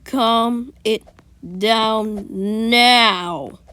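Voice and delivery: loud, deliberate teacher order; firm teacher. Retold or imitated. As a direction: spell out each word to calm him. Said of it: "Be like".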